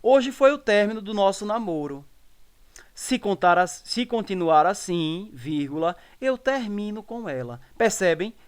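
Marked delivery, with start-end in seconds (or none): 0.6-1.0 "término" stressed on its first syllable. Shown as a demonstration. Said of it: "A presença do acento trouxe contextos diferentes". 6.4-7.0 "termino" stressed on the mi; stress on middle syllable. Shown as a demonstration. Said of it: "A presença do acento trouxe contextos diferentes".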